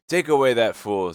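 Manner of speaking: loud, contemptuous order; angry command. Acted. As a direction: bark it at the guards. Cardinal orders the fool removed.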